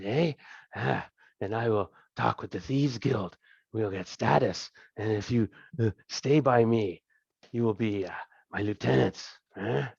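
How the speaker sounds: a hint of a greasy, jovial thug king; fat crime king. Thieves' king welcoming the party to his throne room, lightly voiced and jovial.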